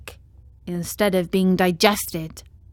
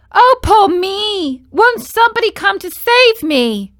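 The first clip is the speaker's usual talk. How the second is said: sobbing plea; 11 semitones higher, 6 dB louder than usual. A narrator's reading. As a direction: drag out the plea through tears. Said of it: "burst into sobs and tears".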